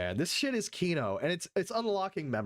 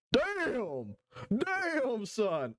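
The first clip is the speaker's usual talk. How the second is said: excited exclamation; 8 semitones higher, much slower than usual. Real, not acted. Reacting to chat.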